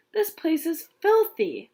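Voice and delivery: high, slow disgusted snap; snapping. Acted. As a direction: spit out the disgust. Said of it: "Melody snapped".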